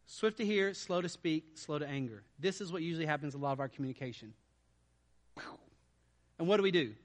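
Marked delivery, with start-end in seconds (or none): 0.0-2.2 each phrase set apart and stressed; spelled out for the congregation. Shown as a demonstration. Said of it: "Now, look at me".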